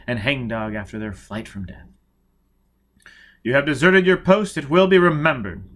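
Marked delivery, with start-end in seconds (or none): 3.4-5.7 cold rebuke. A narrator's reading. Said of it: "Prestine said coldly".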